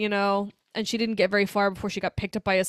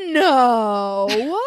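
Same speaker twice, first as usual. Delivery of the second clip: slow, louder campy scorn on No; angry campy Hannibal; 4 dB louder, much slower than usual. Retold or imitated. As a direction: drawl it out with a camp sneer. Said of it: "he says everything so angry and so gay".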